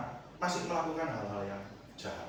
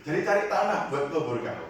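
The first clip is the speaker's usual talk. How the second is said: laughing quote; 3 semitones higher, 8 dB louder than usual. Retold or imitated. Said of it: "Dijawab kayak gitu".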